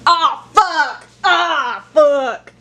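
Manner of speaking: loud dismayed curse; frustrated curse. Real, not acted. Paralyzed by spell, dismayed.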